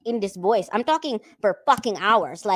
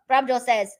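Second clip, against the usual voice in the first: normal talking voice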